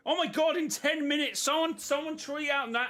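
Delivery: a dev realising they forgot the event, frantic; mock panic.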